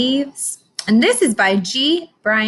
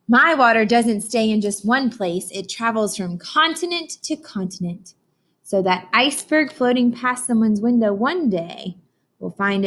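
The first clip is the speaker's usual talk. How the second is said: storybook reading. Acted. Teacher reads storybook aloud.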